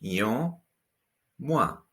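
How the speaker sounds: Un said as a nasal vowel, then mois as mwa; Un through the nose, mois crisp mwa. Shown as a demonstration. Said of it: "The O N nasal vowel sound".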